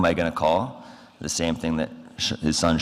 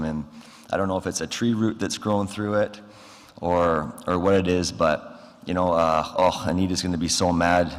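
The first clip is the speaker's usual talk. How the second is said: sounding a bit off. Retold or imitated. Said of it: "Forrest is kinda sounding a little bit off".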